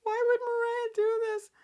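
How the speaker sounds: high hammed-up remorse; mocking Sharon. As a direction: wail the guilt in a high mock voice. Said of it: "Sharon's like".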